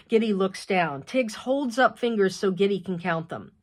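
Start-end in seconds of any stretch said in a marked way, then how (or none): none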